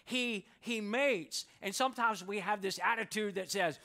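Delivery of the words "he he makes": makes drawn out slowly and weighted; stress on makes. Acted. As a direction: lean hard on the word makes. Pastor stresses key word.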